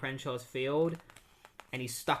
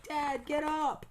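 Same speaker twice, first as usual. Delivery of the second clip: put-on much higher, slow, frightened boy begging dad; desperate plea; 13 semitones higher, slower than usual. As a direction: plead for him to move. Boy pleads with pinned dad.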